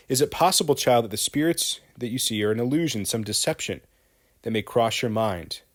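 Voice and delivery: stern judge. Acted. Judge Danforth questions Abigail.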